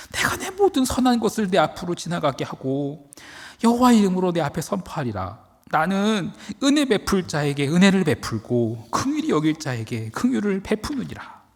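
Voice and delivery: voice of God. Acted. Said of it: "여호와께서 이르시되".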